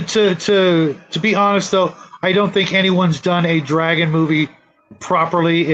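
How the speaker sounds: ordinary talk, nothing marked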